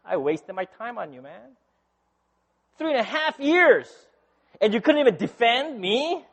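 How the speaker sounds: indignant, rising pitch as it builds; mock reproach. Imagined Jesus scolding Peter for denying him, mock indignation. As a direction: complain like someone let down, hammed-up.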